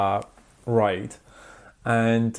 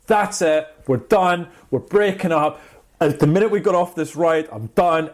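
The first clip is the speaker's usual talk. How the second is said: mock yell; 4 semitones higher, 3 dB louder than usual. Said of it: "he is losing his mind".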